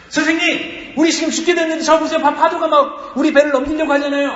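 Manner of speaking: high, loud, frantic cry for help; acted desperate shout from a sinking boat; panicked shouting. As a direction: yell over crashing waves to wake the teacher. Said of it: "막 그렇게 소리쳤겠죠".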